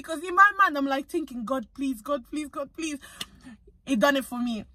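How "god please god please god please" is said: quiet inner pleading. Retold or imitated. Silent prayer while drawing blood.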